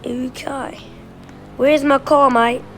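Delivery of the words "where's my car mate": put-on light, playful British accent, not far from own voice; a quick try at a British accent; hint of a British accent asking for the car. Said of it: "I love practicing my British accent".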